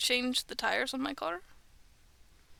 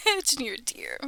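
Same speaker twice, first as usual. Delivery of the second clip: hammed-up movie monologue, building to loud, higher indignation; impassioned courtroom-movie girlfriend; 3 semitones higher, 11 dB louder than usual. Lady in My Cousin Vinny making her deer argument, hammed-up and indignant. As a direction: start the deer scene gently, then burst out, loud and indignant. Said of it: "She does it way better than I do".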